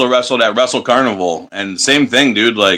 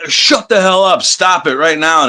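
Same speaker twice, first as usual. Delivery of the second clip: heel taunt; 5 semitones higher, slower than usual. Retold or imitated. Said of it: "trying to be a bad guy".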